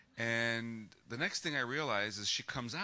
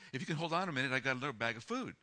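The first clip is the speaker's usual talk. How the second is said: lightly raised pitch for a lady's voice; imitated lady; 4 semitones higher, much faster than usual. Lady offering more food, lightly imitated higher voice. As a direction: quote her in a higher voice. Retold lady calls to him.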